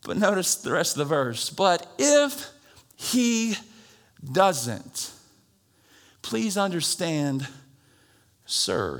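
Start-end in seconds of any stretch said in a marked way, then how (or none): 1.5-9.0 slow, polite Southern drawl; bow politely while refusing; Southern gentleman. Retold or imitated. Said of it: "He's a Southern gentleman".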